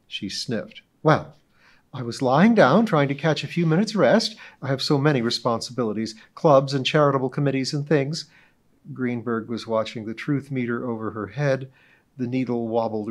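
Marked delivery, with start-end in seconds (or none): 1.0-8.3 high, loud, grandly self-important society lady; pompous witness. Acted. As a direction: orate as if giving a club speech. Mrs Donahue testifying role.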